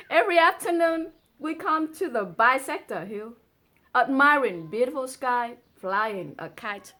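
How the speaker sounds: quick, lifted poem recital; poem reading. Acted. Girl answering her lover in the poem, bright recital. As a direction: read the girl's lines brightly.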